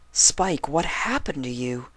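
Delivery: lightly voiced worried pony; concerned unicorn.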